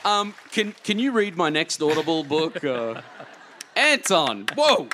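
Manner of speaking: loud, high, thrilled outburst; excited. Real, not acted. Thrilled reaction to the reading.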